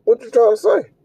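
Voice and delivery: high, disbelieving snap of a question; incredulous "for what". Retold or imitated. Reacting to his girlfriend's request, high incredulous retort. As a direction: act baffled and offended at the request. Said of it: "I'm like".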